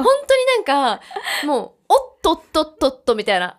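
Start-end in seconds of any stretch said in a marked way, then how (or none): 1.4-3.6 playful "おっとっとっとっと" as she mimics tottering; retold stagger with a light sound effect; stumbling sound effect. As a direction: act out the stumble in the "おっとっとっとっと" syllables. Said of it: "効果音がね、ぴったりだったと思う".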